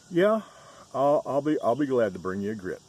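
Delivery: high, loud waitress voice holding back laughs; waitress still laughing. Retold or imitated. Waitress to customer, high and loud, fighting laughter. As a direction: voice the waitress barely composing herself.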